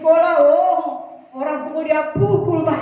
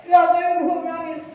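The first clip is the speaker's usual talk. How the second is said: pelan, suara bocah merengek; anak merengek; slower than usual. Retold or imitated. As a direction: tirukan cucu yang hampir menangis. Child answers grandma crying. (cucu menjawab oma sambil merengek)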